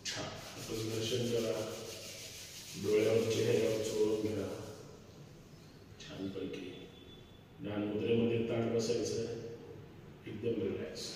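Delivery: soft, low relaxation voice; calm yoga guidance. Real, not acted. Calming guidance after humming exercise.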